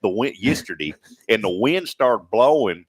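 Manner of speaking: light Southern country storytelling twang; country accent. Pretend. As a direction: tell it like a country porch tale. Demonstrates the country word in tale.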